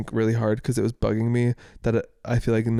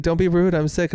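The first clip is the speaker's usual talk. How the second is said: higher-pitched mock indignation; indignant protest; 5 semitones higher than usual. Sick partner scolding a laughing partner, indignant. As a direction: protest like a wounded patient.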